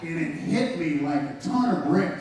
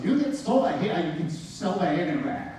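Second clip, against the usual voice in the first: put-on broken Indian accent. Mentor from northern India advising a newcomer, imitated broken accent. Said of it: "with this broken accent".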